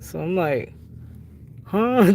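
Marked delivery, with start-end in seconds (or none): 1.6-2.1 sharp, higher, louder huh of disbelief; startled little huh; surprised huh. Retold or imitated. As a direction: react like it makes no sense. Her own reaction to the news.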